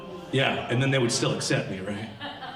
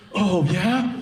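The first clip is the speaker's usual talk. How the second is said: higher-pitched mock arousal; worked-up girlfriend; 4 semitones higher than usual. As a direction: imitate her getting worked up, pitch rising. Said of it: "she's getting really worked up".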